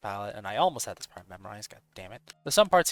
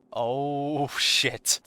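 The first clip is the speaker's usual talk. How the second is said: breathy laugh into a curse; 4 semitones higher, 5 dB louder than usual. Real, not acted. Startled laugh at level.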